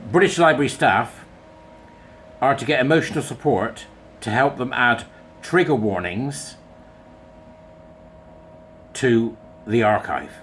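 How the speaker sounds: first go, broken up by long pauses; halting first read. Shown as a demonstration. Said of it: "I'm gonna read it again just so that you can get it in your head".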